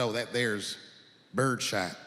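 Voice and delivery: low, slow country drawl; lightly voiced gun clerk. The clerk answering the nervous customer, low drawl. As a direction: play the laconic gun counter guy.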